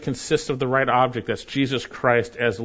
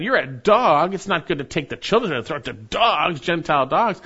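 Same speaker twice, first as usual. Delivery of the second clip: scornful; 5 semitones higher than usual. Retold or imitated. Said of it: "the same attitude the unbelieving Jews had".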